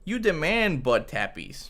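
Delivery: slow, sing-song cooing. Real, not acted. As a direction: tease the cat gently. Talking to the cat.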